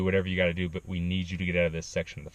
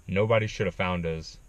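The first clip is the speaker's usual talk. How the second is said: ordinary talk, nothing marked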